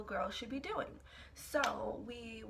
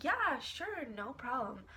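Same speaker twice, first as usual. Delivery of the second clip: breezy fake agreement; 4 semitones higher than usual.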